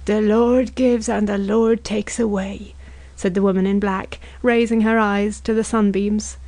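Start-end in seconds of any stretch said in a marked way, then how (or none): 0.1-2.7 slow, solemn scripture recitation; measured funeral piety; pious intoning. A narrator's reading. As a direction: intone it devoutly.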